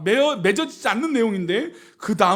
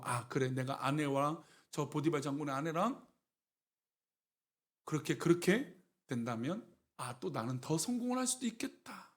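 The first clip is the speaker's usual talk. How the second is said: soft, low thinking aloud; tempted musing; 6 semitones lower, 9 dB quieter than usual. Acted. Joseph weighing an affair for his own success, quiet musing. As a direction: quietly talk yourself into it.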